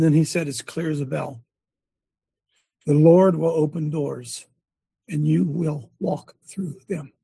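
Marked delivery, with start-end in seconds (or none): 2.8-7.1 slowed right down, each word weighed; slow reverent quote. Retold or imitated. Preacher retelling his grandson's blessing, slow and reverent. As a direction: lay the child's words down slowly and solemnly.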